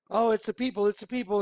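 a lightly hammed-up excited cry; mock eager lion greeting the crowd; excited cartoon lion. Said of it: "he's, like, getting all excited".

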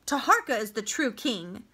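mild angry outburst; ringing anger. Acted. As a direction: snap back in sudden anger. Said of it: "the ring of anger in his voice".

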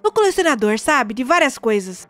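voz grave e séria de vizinho esquisito; voz do Charley. Acted. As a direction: um vizinho rabugento e desconfiado. (voz grave de homem rabugento)

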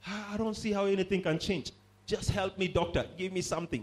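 mock-suffering patient pleading with a doctor; a touch of mock desperation; wavering patient. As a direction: lightly act out a sick doubter's complaint. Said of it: "Then tomorrow you say".

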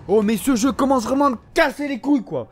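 real frustration boiling over; exasperated gamer rant. Real, not acted. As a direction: rant in outraged disbelief. Ranting at an unkillable game enemy.

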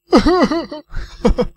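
high, hammed-up sobs; loud fake boo-hoo; mock sobbing. Cook left behind after the farewell, mock sobbing. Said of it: "Está llorando, pobre cocinero".

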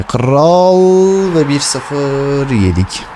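very slow, drawn-out defeat; dejected drawl. Real, not acted. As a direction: drag the words out in dismay. Conceding a goal.

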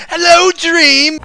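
high, slow sing-song "Hello, Dream"; mock George greeting. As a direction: swoop in with a big cheery hello. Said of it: "and he's like".

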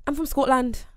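shaky amateur go at Scottish; attempted Scottish accent. Shown as a demonstration. Friend asked for Scottish, tentative Scottish accent. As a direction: try a Scottish accent and not quite get it. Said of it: "Give me Scottish".

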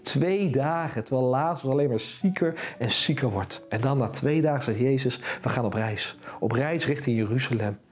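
story narration. A narrator's reading. Presenter reads the Lazarus story to the kids, calm. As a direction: tell it gently to the children. Telling Bible story to children.

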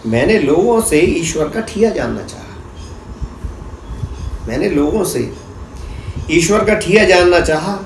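declaimed verse, phrase by phrase with pauses; measured, rhythmic spoken poem; poetry recitation. Acted. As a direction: recite to an audience, repeating lines and building lists in a steady cadence.

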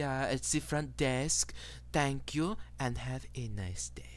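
polite, calm clerk reading a checkout script; lightly voiced spa attendant winding down the session; attendant's spiel. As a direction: soothe the customers like a shop clerk. GM voices emotion-removal attendant.

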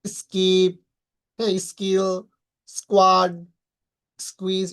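"স্কিপ, স্কিল, স্কোয়াড" with plain K after S; no puff in "স্কোয়াড, স্কুইজ"; unaspirated K. Shown as a demonstration. Teacher modelling S-plus-K examples, unaspirated K. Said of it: "এরকম ভাবে উচ্চারণ করব".

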